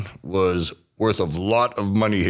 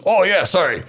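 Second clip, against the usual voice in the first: mock apology; 10 semitones higher, 4 dB louder than usual. Policeman caught forgetting, apologises.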